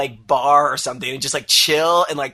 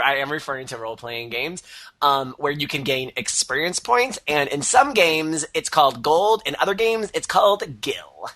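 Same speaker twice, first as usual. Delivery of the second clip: nerd voice. Acted. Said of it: "do the nerd voice".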